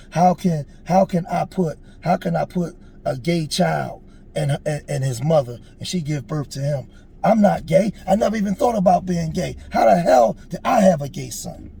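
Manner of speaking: acting out a father's anguish, without tears; distraught retelling of crying. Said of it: "he was crying".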